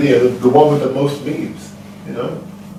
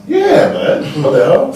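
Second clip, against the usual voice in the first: shocked; 10 semitones higher, 6 dB louder, much slower than usual. Retold or imitated. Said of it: "I was like".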